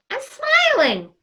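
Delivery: I'm smiling said slow and beaming; big open smile. Shown as a demonstration. Host shows Christy her smile without the mask, beaming. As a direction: let the smile be heard on smiling. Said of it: "I'm smiling ... and then".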